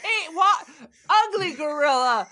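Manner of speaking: high, hammed-up yelps with falling ends; gorilla translator voice. Co-host mimics the gorilla being attacked by others, crazy high voice. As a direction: mimic a talking gorilla device in distress.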